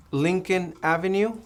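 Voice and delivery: usual speaking voice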